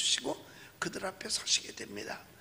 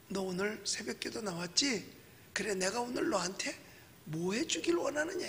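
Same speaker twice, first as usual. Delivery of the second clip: gentle Jesus voice; 5 dB quieter than usual. Retold or imitated. Jesus voiced asking congregation.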